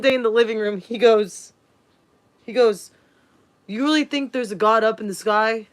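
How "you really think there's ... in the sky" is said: mock-scornful stepdad asking about God; shaming, condescending. Stepdad shaming a five-year-old, condescending mock. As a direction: belittle a child's faith. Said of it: "trying to shame me into not believing in God with the tone of voice".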